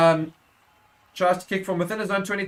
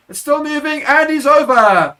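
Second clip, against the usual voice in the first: much higher, loud peak as he's over the line; full-throated play-by-play climax; try-scoring shout; 9 semitones higher, 9 dB louder than usual. Real, not acted. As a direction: let it burst out at the try. Maul drives over for a try.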